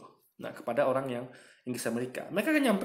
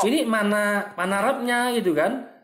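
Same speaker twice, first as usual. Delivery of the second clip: incredulous outburst; 6 semitones higher, 5 dB louder, slower than usual. Real, not acted. Reacting in disbelief to clip.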